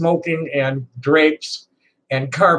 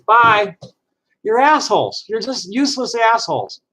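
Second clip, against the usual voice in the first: angry dismissal; 5 semitones higher than usual. Real, not acted. Dismissing hostile viewers.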